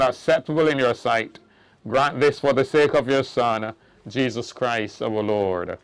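solemn, hushed committal prayer; hushed graveside prayer. Real, not acted.

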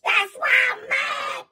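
a hammed-up blubbering sob with a laugh breaking through; mock crying. Imitating the heartbroken friend, hammed-up crying. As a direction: whine it out like a grown man crying. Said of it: "this motherfucker start crying".

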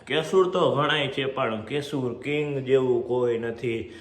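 slow, drawn-out lightly voiced catchphrase; imitating Kesur King catchphrase. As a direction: stretch it out slowly like a singer's tagline. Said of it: "જગદીશભાઈ કહે ને".

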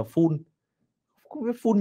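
"full" said as a separate heavy syllable; mock the wrong ending. Shown as a demonstration. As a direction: imitate the error. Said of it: "các bạn cứ phát âm là".

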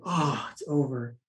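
low, slow acted resignation; mock despair. Man realizing his first date failed, mock despair. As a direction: sink into it slowly, acting crushed.

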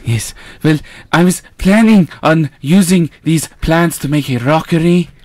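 mild Eastern European Igor voice. Acted. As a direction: creep it like Igor. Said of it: "Accent change to Igor".

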